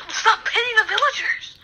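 high laughing yell. Real, not acted. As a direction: laugh while shouting it. Laughing scolding exchange.

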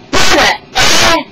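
loud, high exclamation; excited king. A narrator's reading. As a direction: exclaim it as the butter arrives. Delighted king sees the butter.

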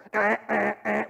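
repeated alarm buzz made by mouth; imitated alarm. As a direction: mimic a buzzer in short bursts.

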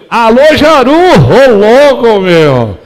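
calling out. Real, not acted. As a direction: call out a cheerful greeting. Greeting a viewer loudly.

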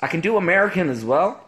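American accent slipping towards Irish; failed American accent. Shown as a demonstration. Showing off to stream viewers, terrible American accent. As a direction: attempt American and land nearer Irish. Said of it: "That was terrible. I sounded more Irish".

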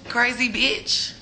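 very slow, dragged insult; drawn-out jab. Real, not acted. Dismissing the texter with a slow drawn-out jab. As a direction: stretch the words out.

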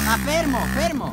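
high loud call to halt; shouting stop. Real, not acted. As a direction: yell at him to stop. Calling rider to stop.

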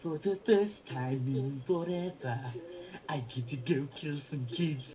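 lightly voiced cartoon baby; a hint of a posh cartoon baby; Stewie voice. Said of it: "a little bit of Stewie".

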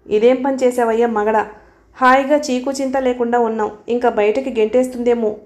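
usual speaking voice

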